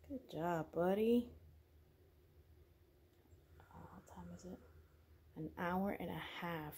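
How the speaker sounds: hushed whisper, keeping the house asleep. Real, not acted. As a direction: whisper so you don't wake anyone. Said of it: "I know I'm whispering".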